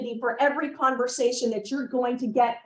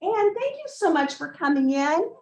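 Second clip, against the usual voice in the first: energetic greeting; 3 semitones higher than usual. Shown as a demonstration. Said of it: "get up and say like this".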